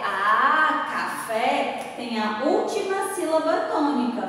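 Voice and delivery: normal talking voice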